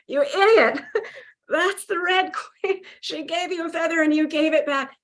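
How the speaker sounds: high, teary laugh-cry at herself; half laughing, half crying at her own foolishness; laughing through tears. Retold or imitated. Scolding herself over the Red Queen, laughing and crying.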